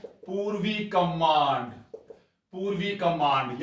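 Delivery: pūrvī kamānd said slowly, पूर्वी stressed; slow drilled term. Shown as a demonstration. Teacher drills the term for students, पूर्वी slow and stressed. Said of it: "याद रखोगे".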